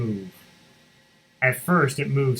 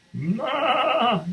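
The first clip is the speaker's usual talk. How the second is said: a high bleat; bleating goat; 12 semitones higher than usual. Acted. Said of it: "said the goat".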